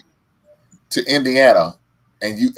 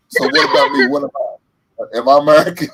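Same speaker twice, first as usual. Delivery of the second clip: wailing, rising plea; jokey fake-crying question to the viewers; mock tearful; 4 semitones higher, 5 dB louder than usual. Real, not acted. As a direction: fake a whimper on American.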